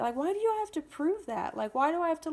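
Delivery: re-enacted indignant questioning; exasperated protest. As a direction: argue back, fed up with proving it. Retold quarrel with mother.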